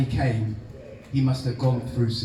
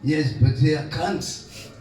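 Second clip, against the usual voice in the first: rough Mauritian accent, self-mocking imitation; old Mauritian uncle in a Mauritian accent; slower than usual. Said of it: "my atrocious Mauritius, Mauritian accent".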